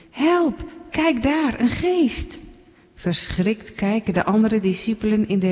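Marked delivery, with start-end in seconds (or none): 0.1-2.4 high, startled call of help; a disciple panics at a ghost on the water; frightened cry. Acted. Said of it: "Plotseling roept een van de discipelen".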